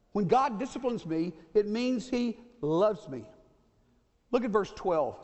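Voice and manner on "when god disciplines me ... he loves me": slowed emphatic repeat. Shown as a demonstration. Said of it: "repeated, slowed".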